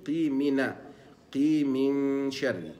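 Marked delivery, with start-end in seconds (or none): 1.3-2.7 قي من شر slow, heavy ق; قي من شر drawn out; linked qaf. Shown as a demonstration. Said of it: "تبقى". (الوصل بقاف مفخمة)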